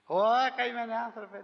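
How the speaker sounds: mocking laugh through the words; laughing pity. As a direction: laugh at the poor fellow. Forgiven man mocks the judge. (γελώντας κοροϊδευτικά)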